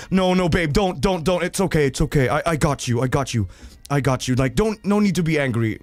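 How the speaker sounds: calm her down, half-hearted and hammed; mock soothing husband. Husband soothing his angry wife, mock reassuring. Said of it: "the husband is like".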